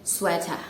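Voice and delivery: "sweater" with a short e as in wet; correct pronunciation. Shown as a demonstration. Teacher repeats "sweater" for learners. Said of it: "One more".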